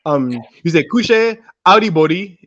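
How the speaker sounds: Audi body said with a rise on Audi; Krio greeting. Shown as a demonstration. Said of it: "and then you say".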